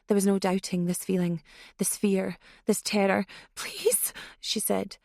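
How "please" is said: tremulous plea. Acted. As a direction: beg with a shaking voice. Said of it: "spilling out in a tremulous croak".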